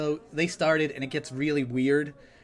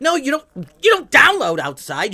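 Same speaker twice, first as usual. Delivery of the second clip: exasperated uncle; 9 semitones higher, 7 dB louder than usual. Retold or imitated. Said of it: "And I'm like".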